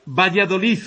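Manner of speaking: "Valladolid" ending in a th sound, Valladolith; final D as Z. Shown as a demonstration. Teacher demoing the Castilian final D, pronounced as Z. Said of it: "La D final se pronuncia como Z".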